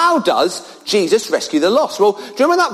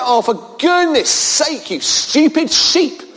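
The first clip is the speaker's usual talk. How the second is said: mock grumpy farmer; 3 semitones higher than usual. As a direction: play the moody shepherd, half-joking. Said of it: "Is he a bit moody?".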